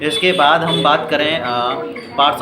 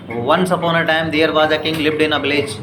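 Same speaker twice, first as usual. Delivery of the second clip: slow, careful read-aloud; much slower than usual. Shown as a demonstration. Teacher demonstrating pronunciation to students, slow and careful. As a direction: read it out word by word, slowly. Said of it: "ऐसे पढ़ रहे हैं ना".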